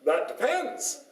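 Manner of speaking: put-on high, drawn-out American accent. Voice from back of hall answers the speaker, American accent. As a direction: stretch it slowly in an American twang. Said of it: "with an American accent".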